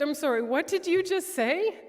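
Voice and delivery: high, loud, tearful disbelief; reliving the tears, pleading to hear it again; retold crying. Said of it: "really crying when I said this".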